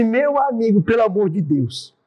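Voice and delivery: high start, slowing into an appeal; retold pleading. Pastor begs a man threatening to kill, retold plea. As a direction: plead with him, drawing it out.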